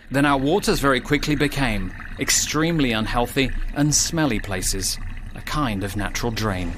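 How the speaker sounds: put-on rhyming storyteller's read to young listeners; story narration. A narrator's reading. Narrator reading a rhyming crayfish tale, storytelling voice. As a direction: tell the rhyme like a children's tale.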